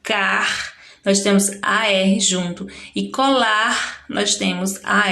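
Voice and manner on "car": put-on syllable pulled out for children; isolating the syllable. Shown as a demonstration. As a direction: take just "car" from "cartola".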